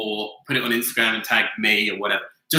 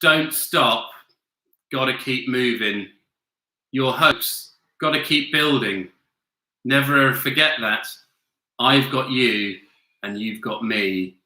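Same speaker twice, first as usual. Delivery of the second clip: monotone reading. Shown as a demonstration. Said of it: "In the lyrics from songs in a monotonous voice".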